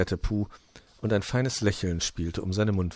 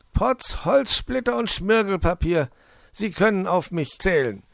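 high, emphatic fox craftsman; exclaiming fox; 10 semitones higher, 5 dB louder than usual. A narrator's reading. Fox promising to finish Zwitschi, high and emphatic. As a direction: play an eager fox, louder and pitched up.

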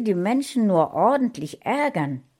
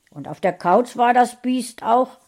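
ärgerlich festgestellt; 6 semitones higher, 8 dB louder than usual. A narrator's reading. Michael stellt ärgerlich fest.

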